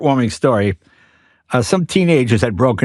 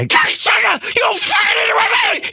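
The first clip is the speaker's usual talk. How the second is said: imitated screaming. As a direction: scream it like a psychopath losing it. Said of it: "He's just screaming".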